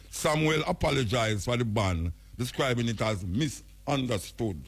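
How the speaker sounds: reading the article aloud in a news voice; news report reading. Acted. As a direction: read the Gleaner piece like a bulletin. Reads out newspaper report.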